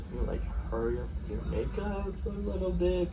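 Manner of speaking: softly, politely nudging someone along; nice, subtle asking. Retold or imitated. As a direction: ask very nicely, treading lightly. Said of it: "very nicely in the most subtle way".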